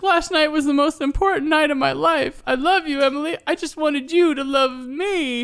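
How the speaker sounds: hammed-up shouted declaration of love; shouting confession. Gus shouting his confession to Emily in the hall. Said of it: "he's shouting his confession to her".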